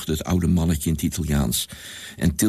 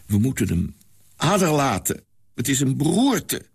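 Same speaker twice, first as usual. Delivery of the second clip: put-on old man; 5 semitones higher than usual. A narrator's reading. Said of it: "merkte het oude mannetje op".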